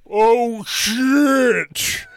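high squeaky voice. Retold or imitated. High voice from whippets.

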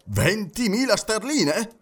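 high, slow, rising question; astonished exclamation. A narrator's reading. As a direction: repeat the sum in amazement. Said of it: "esclamò John Sullivan". (esclamazione stupita)

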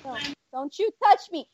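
hammed-up outraged high protest; melodramatic lady. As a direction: play the offended lady, high and slow.

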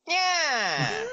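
shrill high cartoon villain shriek; Skeletor scream. Skeletor stabbed, shrieking high like the cartoon. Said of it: "you just hear Skeletor go".

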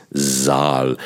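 "Saal" with a voiced s and a long slow a; long warm vowel. Shown as a demonstration. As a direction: stretch "Saal" slowly and warmly. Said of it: "ein zweites stimmhaftes S".

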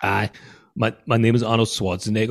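lightly voiced action star with English accent; hint of mock-English strongman; Arnold Schwarzenegger. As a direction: try an English-Austrian accent blend. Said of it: "Schwarzenegger with an English accent".

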